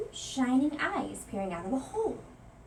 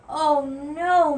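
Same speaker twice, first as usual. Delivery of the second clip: moaning; 5 semitones higher, 11 dB louder than usual. A narrator's reading. Mouse alone at night moaning at the noise. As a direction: let it sink out as a moan. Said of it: "moaned Louis".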